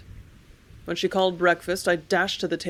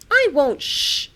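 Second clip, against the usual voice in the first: higher and louder, shouted in defiance; defiant loud cry; 8 semitones higher, 7 dB louder, slower than usual. Acted. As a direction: shout back, refuse to be hushed. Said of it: "I cried just as loud as ever".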